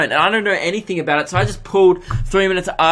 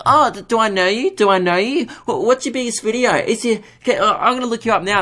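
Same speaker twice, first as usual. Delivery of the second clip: higher, eager mock fan voice; imitating excited strangers; 5 semitones higher than usual. Stranger learning he does online stuff, higher star-struck mock voice.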